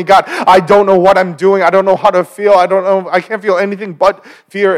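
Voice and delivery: frightened prayer. Retold or imitated. Preacher voicing a frightened believer's prayer, fearful plea. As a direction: pray like you're scared in the dark.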